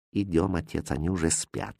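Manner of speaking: low and very soft, plotting in the dark; hushed conspiring. A narrator's reading. The innkeeper's son urging his father, hushed. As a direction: keep it barely audible, a schemer. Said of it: "говорил сын".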